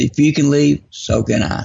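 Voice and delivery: plain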